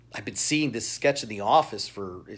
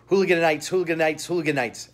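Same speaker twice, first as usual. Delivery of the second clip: rattling Hooligan Knights off quickly, louder at first; tongue twister; 4 semitones higher, 4 dB louder than usual. Shown as a demonstration. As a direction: race through Hooligan Knights three times. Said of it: "I can't say that three times fast".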